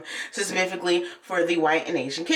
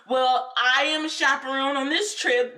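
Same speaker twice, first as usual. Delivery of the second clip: firm, higher-pitched announcement; assertive mother; 4 semitones higher than usual. Retold or imitated. Mother overrules the teacher, assertive. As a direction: imitate a mother taking charge. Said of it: "This is the mama".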